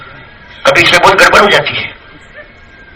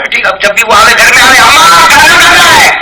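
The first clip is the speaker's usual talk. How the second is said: put-on child's voice; 8 semitones higher, 4 dB louder than usual. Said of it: "بولتا نا".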